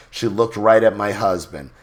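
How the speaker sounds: ordinary delivery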